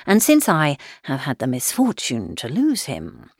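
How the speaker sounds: a hint of a stiff, pompous cousin; pompous letter writer. Mr Collins's letter read aloud.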